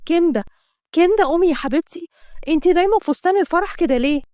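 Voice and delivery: a touch of a worried friend calling out; friend calling her awake. Acted. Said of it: "فضلت تفوق فيها".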